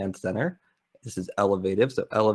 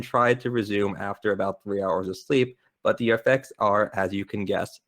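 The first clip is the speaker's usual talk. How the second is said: monotone voice. Shown as a demonstration. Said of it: "in my super monotone voice".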